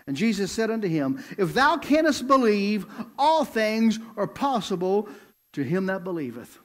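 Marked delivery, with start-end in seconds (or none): 1.4-6.6 preaching Jesus' words. Acted. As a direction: preach the verse with weight. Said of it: "listen to Jesus' response".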